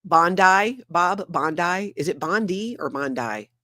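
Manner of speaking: trying out "Bondi" two ways, questioning; unsure pronunciation. Real, not acted. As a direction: sound out "Bondi" as BON-dye, then BON-dee, unsure. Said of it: "how to pronounce her name".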